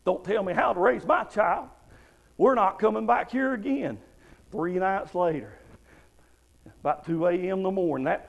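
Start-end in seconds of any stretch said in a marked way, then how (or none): 0.0-4.0 retold indignant mother; mildly acted angry outburst, pitched up by the end; blowing up. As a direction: imitate an offended mother refusing advice. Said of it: "She blew up".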